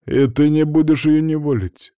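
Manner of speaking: high-pitched, teasing disbelief; mocking question. A narrator's reading. Bolo asking if he won't force her, mocking. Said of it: "насмешливо поинтересовался Боло".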